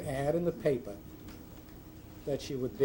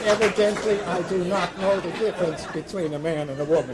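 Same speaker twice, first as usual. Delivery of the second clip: laughing; 5 semitones higher, 9 dB louder than usual. Real, not acted. Punchline told through laughter.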